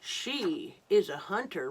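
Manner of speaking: hint of a lion's roar. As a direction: growl it like a lion. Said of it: "roared the lion".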